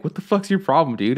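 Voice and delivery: mad dad, retold. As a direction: imitate a mad dad confronting his son. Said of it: "But he was really mad".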